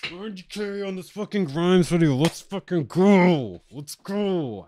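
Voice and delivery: a lightly voiced hype-man celebrating his views; impression of a beatmaker. Streamer imitating a beatmaker celebrating ninety K, hyped. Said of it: "I could do a pretty good B W B impression".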